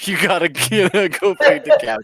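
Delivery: high, loud, laughing urgency; pleading loudly through a laugh; retold urgent plea. Excited retold call to wife.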